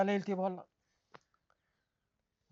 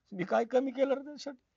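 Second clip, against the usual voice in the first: higher, tearful pleading; crying lament; 5 semitones higher than usual. Acted. Wounded father weeping over his son's insult, higher and tearful. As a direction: ask it through tears, hurt. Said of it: "काय झालं रडायला?".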